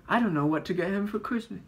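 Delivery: high, loud, fast whine; put-on character dilemma. Both characters voiced in retold story.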